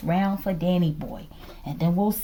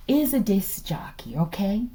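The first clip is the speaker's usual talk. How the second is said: whisper; 2 semitones lower than usual. Real, not acted. Confiding a suspicion to viewers.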